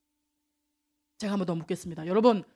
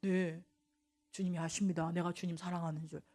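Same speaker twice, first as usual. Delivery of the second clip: a touch of worry; 9 semitones lower, 14 dB quieter than usual. Acted. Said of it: "조금 약간 근심하면서".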